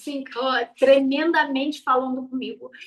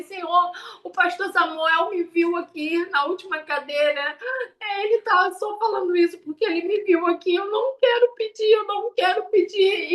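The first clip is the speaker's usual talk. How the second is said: urgent protest pitched higher, building; pushing back against God, rising to a pleading cry; higher, pleading refusal; 4 semitones higher than usual. Retold or imitated. Testifier retelling her refusal to God, higher pleading protest.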